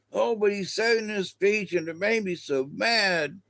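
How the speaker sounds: high, whiny mock outrage; mock upset viewer. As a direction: parody someone worked up over a speech.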